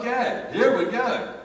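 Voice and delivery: excited laughing launch. Real, not acted. Laughing build-up to prayer story.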